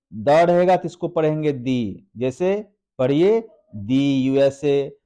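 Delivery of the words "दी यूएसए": दी said as "thee" before USA; "दी USA" with a long ee. Shown as a demonstration. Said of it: "कैसे बोलना है?".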